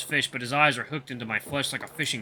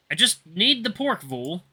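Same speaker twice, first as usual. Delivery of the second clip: calm; 6 semitones higher, 3 dB louder, slower than usual. A narrator's reading. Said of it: "I state calmly".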